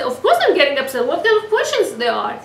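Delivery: loud, fast irritated snap; angry retort. Pretend. Hillel's imagined reply to the pest, fast irritated retort. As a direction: blurt it out annoyed and quick.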